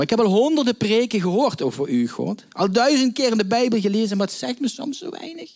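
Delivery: anguished outcry. Acted. Voiced lament, pitch climbing high.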